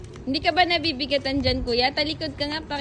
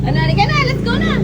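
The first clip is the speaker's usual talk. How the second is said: calling out loudly; 7 semitones higher, 11 dB louder, faster than usual. Real, not acted. Mother calling child to come.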